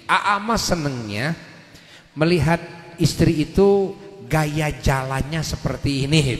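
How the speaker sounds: acted tender request, pitched low; gentle husband coaching. Husband gently coaching his wife.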